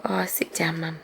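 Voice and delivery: quick hushed aside to the dog; soft murmur off camera; whispered aside. Real, not acted. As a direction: whisper it under your breath. Telling dog to sit.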